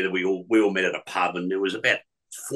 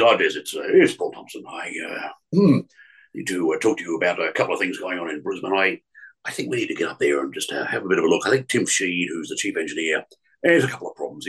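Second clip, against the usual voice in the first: a lightly put-on lower voice of a radio boss, quick and businesslike; Paul Thompson impression; 4 semitones lower than usual. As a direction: prank caller posing as the boss, fast and lower. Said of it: "the renowned Paul Thompson impersonator".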